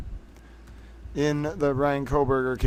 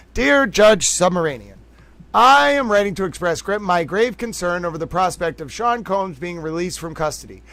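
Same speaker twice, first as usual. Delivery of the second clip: a slightly raised, measured reading voice; formal letter reading; 3 semitones higher than usual. Acted. Reading the letter to the judge for viewers, measured formal read. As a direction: read it out like a statement to the court. Reads the victim's letter aloud.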